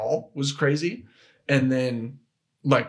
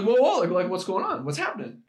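retold alarm; 6 semitones higher than usual. Confused boyfriend caught off guard.

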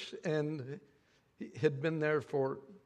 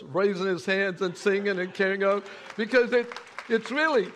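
louder preaching, pushing the point; 4 semitones higher, 5 dB louder than usual. Acted. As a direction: build into a full sermon climax. Preaching builds.

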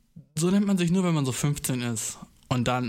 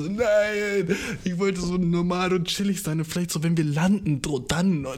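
flustered explanation; 4 semitones higher, slower than usual. Retold or imitated. He tries to explain to her he meant later, flustered. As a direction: explain yourself in a flustered rush. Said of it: "Und ich war so".

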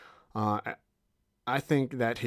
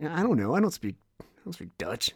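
shrugging waiter; 6 semitones higher than usual. Retold or imitated. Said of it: "they would just kinda shrug and be like".

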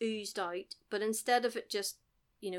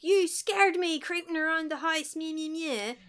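high, nagging dad tirade; imitated angry dad, raised pitch; mock yelling; 7 semitones higher, 4 dB louder than usual. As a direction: yell it high, then tail off into mocking babble. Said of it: "started yelling at him".

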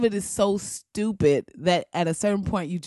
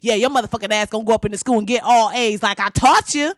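louder, fast grandma cuss-out; hammed-up loving scold, fast and louder; cussing compliment; 5 dB louder, faster than usual. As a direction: praise the kid while cussing him out. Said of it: "she cuss you out even when she complimenting".

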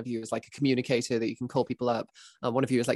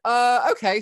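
mock confused okay; 9 semitones higher, 6 dB louder, slower than usual. Imitating a confused player.

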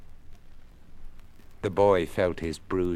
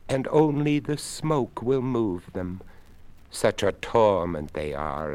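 a courteous creaky skeleton, unhurried; 3 semitones higher than usual. Acted. Skeleton speaks.

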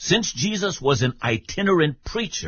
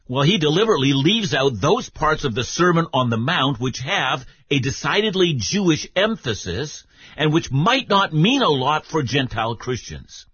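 ordinary talk, nothing marked

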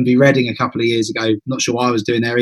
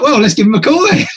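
higher voice breaking into laughter; amused quote, pitched up; laughing retelling; 10 semitones higher than usual. Retold or imitated. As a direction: act out the dare, on the edge of laughing. Laughs retelling his dare to her.

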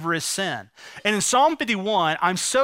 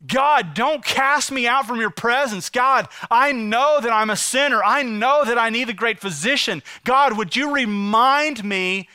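raised, insistent begging prayer; earnest plea; 4 semitones higher than usual. Acted. Preacher as David begs God for mercy, earnest plea. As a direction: plead with God, higher and forceful.

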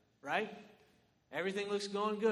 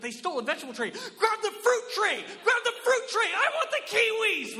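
much higher, louder, laughing frenzy; frantic panic; 11 dB louder than usual. Retold or imitated. Panicked guests grabbing the fruit tray, frantic.

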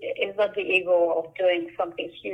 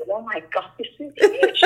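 amazed laugh; 3 semitones higher than usual. Real, not acted. Artist seeing her huge mural come together, amazed laughing. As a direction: gasp it out, delighted by the size.

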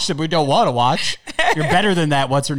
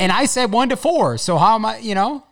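indignant; 9 semitones higher, 5 dB louder than usual. Real, not acted. Playful argument, high loud.

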